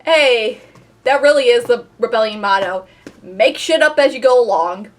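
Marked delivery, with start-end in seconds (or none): none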